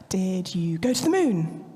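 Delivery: put-on slow, drawn-out teasing question to a toddler; playful silly question. Mum teasing her daughter after nursery, slow and playful. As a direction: stretch it out like a game with a small child.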